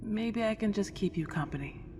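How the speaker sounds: coaxing breathy whisper. Acted. Ghost whispers an offer of company to the owner. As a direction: lean in and whisper it, hopeful.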